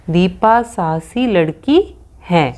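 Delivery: slow, word by word for writing; slow dictation. Shown as a demonstration. Teacher dictating the answer sentence to the children, slowly. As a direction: read it out slowly so the class can write. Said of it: "तो हम यहाँ पे लिख सकते हैं".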